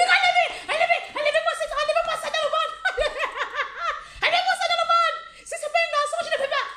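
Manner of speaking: very high, laughing shrieks; mock hysterical screaming; hysterical yelling. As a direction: shriek it out, half laughing, refusing the baby. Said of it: "Il dit".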